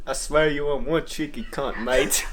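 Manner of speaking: mock Scottish. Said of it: "knows how to speak Scottish".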